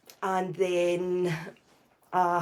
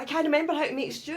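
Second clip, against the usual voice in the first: distressed self; 8 semitones higher, much faster than usual. Retold or imitated. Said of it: "And I was like".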